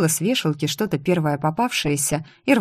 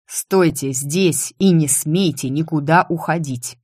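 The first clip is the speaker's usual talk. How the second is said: barked order. Acted. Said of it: "рявкнул он".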